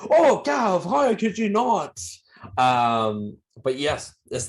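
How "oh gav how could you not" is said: mock disbelief. Real, not acted. Teasing co-host.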